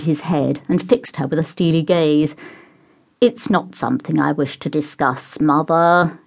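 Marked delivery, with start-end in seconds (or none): 3.2-6.2 tight, held-back through the teeth; gritted teeth. Acted. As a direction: speak through clenched teeth. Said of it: "he said through gritted teeth".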